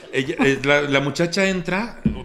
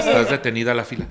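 laughing repeat. Shown as a demonstration. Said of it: "en este tono le dije".

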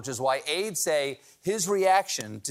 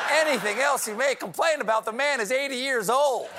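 incredulous shout; 8 semitones higher than usual. Acted. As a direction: shout it back in disbelief.

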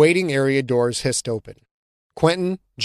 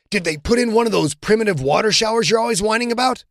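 fast, higher teasing jab; mocking teammate; 8 semitones higher, faster than usual. John mocking Quentin's water showers, quick and teasing. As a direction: rush the jab like a needling friend.

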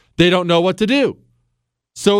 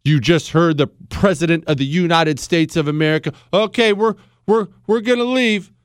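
groveling American official. Retold or imitated. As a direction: stumble over every word like a scared subordinate. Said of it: "They say".

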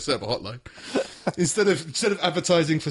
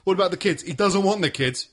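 pretend lawyer arguing; 5 semitones higher than usual. Pretend courtroom argument over kids.

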